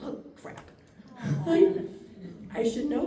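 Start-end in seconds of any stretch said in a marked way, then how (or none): 0.0-0.7 barely voiced, very soft; quiet, toneless oops moment; dismayed aside. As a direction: mutter it under your breath in dismay. Realises waiter has left.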